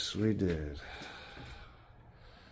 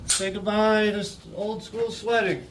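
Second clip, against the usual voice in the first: talking around a cigarette; cigarette in mouth; 3 semitones higher than usual. Real, not acted. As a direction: lips holding a cigarette. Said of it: "with a cigarette in my mouth".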